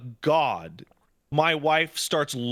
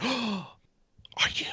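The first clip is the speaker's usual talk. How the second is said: high breathy delighted question; mock surprise; 9 semitones higher, 4 dB quieter than usual. Neighbor spotting the pregnant wife, surprised. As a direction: play the thrilled neighbor. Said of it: "our next door neighbor went".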